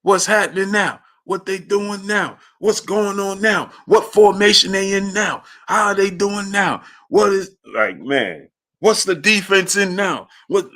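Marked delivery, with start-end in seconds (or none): 0.0-7.6 mock confused old fan; imitating blind uncle. Repeating the uncle's questions. 8.8-10.8 higher nagging question; lightly voiced old fan; imitating blind uncle.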